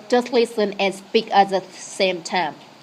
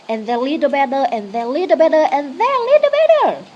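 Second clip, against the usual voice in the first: each repeat climbs higher, ending far higher; rising step by step; 5 semitones higher, faster than usual. Shown as a demonstration. Teacher to learners, climbing higher with each step. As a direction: lift the pitch on every "little better" until it soars.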